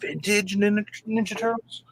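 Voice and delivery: high squeaky question; squeaky excited echo. Real, not acted. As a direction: squeal it back in disbelief.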